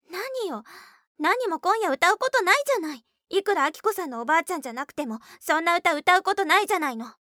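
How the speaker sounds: high, loud, fast angry protest; angry outburst. Acted. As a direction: snap at her, furious. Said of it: "かやこはあきこを睨みつけた". (怒って声を荒げる)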